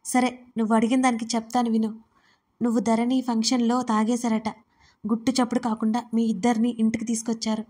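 calm newsreader. A narrator's reading. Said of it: "తాపీగా చెప్పింది దీవెన, అచ్చం న్యూస్ రీడర్ లాగా".

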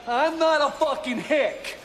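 angry, drawn-out protest; indignant outburst. Acted. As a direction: punch out each word indignantly. Indignant denial of being a hick.

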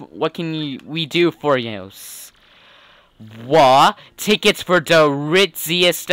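streetwise gangster's sidekick voice; mob henchman. Acted. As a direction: talk like the boss's loyal goon.

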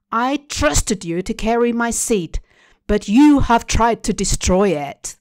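a mother's angry screaming rant; raging shout. Acted. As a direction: rage at the daughter who betrayed her. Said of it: "she screamed".

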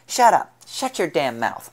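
loud high furious shout; furious yell. A narrator's reading. Gang leader screams at Logan to shut up, furious. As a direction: scream him down in rage.

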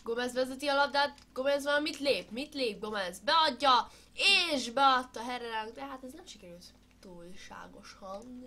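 lively match commentary; sports commentary. Pretend. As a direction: call the attack play by play. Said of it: "én vagyok a kommentátor".

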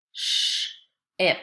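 "sh-ip" split, long hushing sh, pause, then ip; segmented digraph. Shown as a demonstration. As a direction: hold the "sh" in "sh-ip", break before "ip". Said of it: "Listen to this word as I say it".

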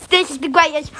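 mock pilot's catchphrase ending in a yell; imitated scream. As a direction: build into a playful crash noise. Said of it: "He keeps on screaming".

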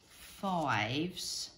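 ordinary talk

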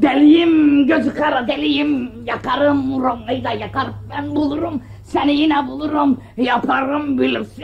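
wild unhinged ranting madman; crazy man impression. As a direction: rant like a reckless lunatic. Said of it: "çok güzel deli taklidi yaptın ha".

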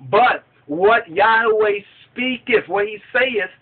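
slow, weighty declamation; scripture reading. Acted. Balaam answers Balak he cannot go beyond the commandment, solemn scripture reading. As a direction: proclaim the verse in drawn-out, measured phrases.

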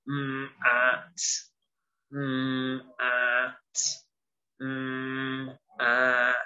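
slow robot voice with gaps between sounds; robotic, sounding each part separately. Shown as a demonstration. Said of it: "A robot might say".

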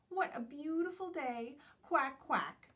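high, loud cheery duck; a noisy duck delighting in the day. Acted. Dotty Duck chatting at the park, high loud cheer.

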